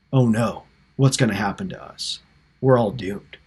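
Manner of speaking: hushed acted despair, as if doomed; mock dismay. Preacher voices brothers realising their lives are in Joseph's hands, mock dismay. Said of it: "they were dismayed".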